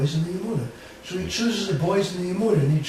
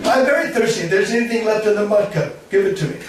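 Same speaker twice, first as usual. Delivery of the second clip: pleading thirsty; 4 semitones higher, 4 dB louder than usual. Acted. Dauji begging for a drink.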